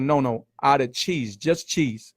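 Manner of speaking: slowed down, spelling it out for the waitress; patient, deliberate re-explaining. Retold or imitated. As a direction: say it again slowly so she gets it. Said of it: "I said".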